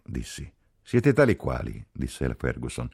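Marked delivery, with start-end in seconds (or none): 0.8-1.9 higher, louder indignant retort; angry rebuke. A narrator's reading. Ferguson condemns both lovers, angry rebuke. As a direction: snap it at the pair of them.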